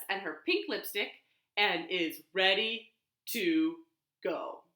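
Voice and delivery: lively picture-book reading; reading to children. Shown as a demonstration. Librarian reading the picture book aloud at storytime. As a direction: read it out warmly to the kids.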